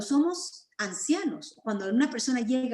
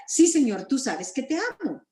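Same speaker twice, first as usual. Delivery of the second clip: pleading, higher-pitched answer with a touch of distress; afligido Pedro, acted; 3 semitones higher than usual. Peter answers Jesus's repeated question, mildly afflicted. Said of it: "aflicción tal vez".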